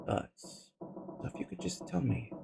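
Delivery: hushed anxious whisper. Acted. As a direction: ask it under your breath. Junpei fragt flüsternd.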